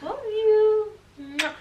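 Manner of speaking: high, drawn-out cooing; cutesy affection. Real, not acted. Girlfriend answering her boyfriend's compliment, cutesy affection. Gushes back after his compliment.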